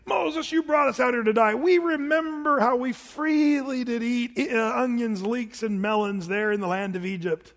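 mock the grumblers pining for Egypt; whining Israelites. Israelites complaining to Moses, lightly mocking whine. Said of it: "they're gonna say".

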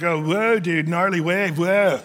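lightly voiced surfer dude; hint of a surfer-dude accent, stretching the whoa; Southern California surfer. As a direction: toss it out like a stoked surfer. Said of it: "grew up in Southern California, you're surfer".

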